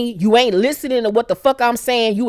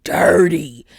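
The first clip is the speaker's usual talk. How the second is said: slow disgusted; 4 semitones lower, much slower than usual. Real, not acted. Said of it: "I'm like".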